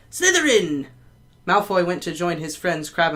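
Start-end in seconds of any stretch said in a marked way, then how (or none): 0.1-0.9 high, slightly louder call; Hat screaming. A narrator's reading. Sorting Hat barely touches Malfoy, screaming. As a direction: shriek the house at once. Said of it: "it screamed".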